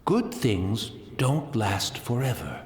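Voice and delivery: slow, near tears; tearful quote. Acted. Blind tea master recalls the Shogun's saying, tearful and slow. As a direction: let the words catch with sorrow. Old man quoting the Shogun.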